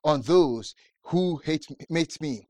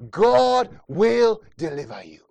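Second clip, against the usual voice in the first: louder, slower repeat; 5 dB louder, slower than usual. Shown as a demonstration. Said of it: "repeated louder and slower".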